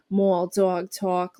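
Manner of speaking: Brooklyn-like Albany accent demo. Shown as a demonstration. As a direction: show the Albany vowels word by word. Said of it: "Albany, Schenectady accent".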